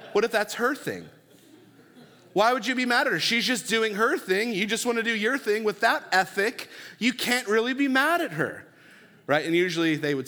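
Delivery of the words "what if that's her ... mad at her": emphatic pastor. Retold or imitated. Pastor pressing the point.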